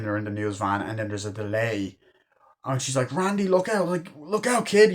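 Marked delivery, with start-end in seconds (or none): 3.1-4.9 higher-pitched mock calling out; retold warning. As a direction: imitate an urgent warning. Retelling viewer calling out warning.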